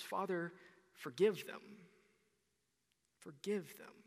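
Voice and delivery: soft, gentle, fading on the second forgive them; softly voiced Jesus forgiving from the cross; tender forgiveness. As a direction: let the plea fall away quietly. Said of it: "He says".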